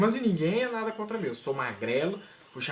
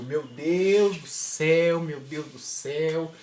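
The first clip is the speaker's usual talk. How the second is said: slow, strained, fighting a laugh; holding back laughter; 3 dB louder, much slower than usual. Retold or imitated. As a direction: drag it out trying not to crack up. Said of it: "eu preciso segurar a risada". (segurando o riso)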